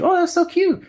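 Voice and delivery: very high, sweet mock girl voice; charmed woman. Woman answering the shy foreign student, high cooing voice. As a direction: coo it like a delighted woman.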